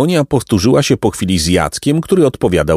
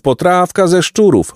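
higher repeated call, weight on szczurów; hawker's cry; 9 semitones higher than usual. A narrator's reading. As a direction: push the call further up. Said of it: "wołał inny".

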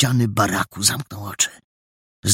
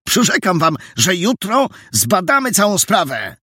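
tense, raised-pitch appeal; strained pleading, rising in pitch; 7 semitones higher than usual. A narrator's reading. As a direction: urge a crowd to get a grip, voice climbing higher. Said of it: "mówił napiętym głosem".

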